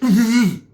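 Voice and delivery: high, loud wordless beckoning sound; imitated summoning noise. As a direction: call someone over without words. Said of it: "That's how he does it".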